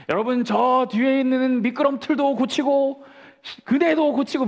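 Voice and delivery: high, slow schoolboy orator voice; father's campaign speech. Retold or imitated. Father as a boy, speaking to the school, in a slow high orator voice. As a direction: play the boy promising to fix everything. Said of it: "갑자기 올라가서 ... 다 고치겠다고".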